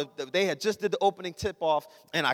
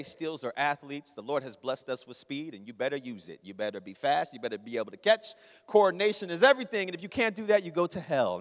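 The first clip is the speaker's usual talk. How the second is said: stern father; 6 semitones lower, 4 dB quieter than usual. Retold or imitated. Father's creed voiced in sermon.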